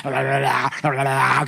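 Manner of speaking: mock babbling la-la-la, lightly done; faked tongues. Boy alone in his room faking tongues, mock babble. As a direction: babble it like fake speaking in tongues. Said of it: "계속 이러고 있었던 거야".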